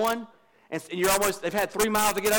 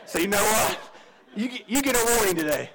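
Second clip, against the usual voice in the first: lightly voiced easygoing police officer; mildly voiced officer at the car window, amused; a hint of a laid-back cop; 7 semitones lower, faster than usual. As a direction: play the cop letting you off easy, half laughing. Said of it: "Kevin walks up to your car, says".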